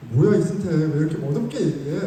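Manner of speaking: mock exasperation at oneself; scolding himself. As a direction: chide yourself for sounding lame. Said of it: "말하고도 제가".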